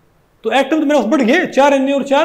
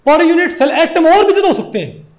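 said through a laugh; amused laughing restatement; 4 semitones higher than usual. Real, not acted. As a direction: chuckle while saying it. Teacher restates the point laughing.

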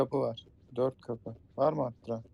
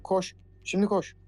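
being chased; 7 semitones higher than usual. Real, not acted. Monster chasing, urging to run.

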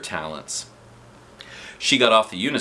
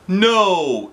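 loud, sharp firm no; 9 semitones higher, 6 dB louder than usual. A narrator's reading. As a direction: shut it down firmly. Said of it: "said Mister Klutz firmly".

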